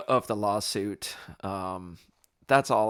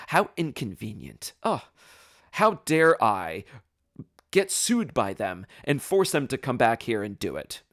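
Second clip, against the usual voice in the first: mock sympathy. Defendant mocking the absent owner's inconvenience, sarcastic. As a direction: feign outrage at yourself, dripping irony.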